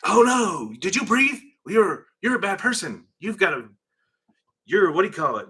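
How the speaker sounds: high-pitched, hammed-up scandalized voice; mock alarm. Mimicking people offended by anything, mock alarm. Mimicking today's overreacting culture.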